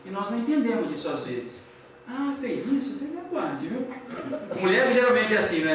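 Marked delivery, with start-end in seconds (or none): 2.1-3.9 higher, softer mock warning; hushed, teasing imitation of a threat; veiled threat. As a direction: play a miffed wife quietly plotting payback. Mimics a resentful wife's veiled threat.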